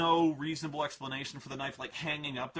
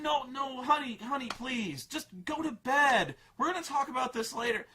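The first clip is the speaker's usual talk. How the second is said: dismissive dad; 7 semitones higher than usual. Retold or imitated. Dad brushing her off.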